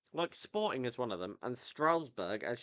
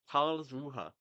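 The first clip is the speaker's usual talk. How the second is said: Karlsruhe in an attempted German accent; weird German accent; 2 semitones higher than usual. Real, not acted. Podcaster naming a German club, in a weird German accent. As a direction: have an unconvincing go at German pronunciation. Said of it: "That was a really weird German accent".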